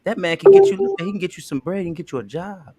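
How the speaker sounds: pumped, upbeat pitch for Greg; hyped-up sales pitch. Acted. Second take selling Greg to Tina, hyped up. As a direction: hype him like a promoter. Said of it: "Make him a little bit more fun".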